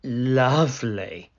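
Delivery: a hint of a snarl; snarling wolf. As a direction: let the wolf slip out. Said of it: "snarled the wolf".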